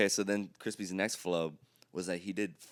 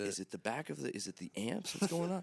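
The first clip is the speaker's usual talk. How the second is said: panicked muttering; 5 dB quieter than usual. Retold or imitated. To himself while fixing the amp, hushed panic. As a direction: mutter in rising alarm.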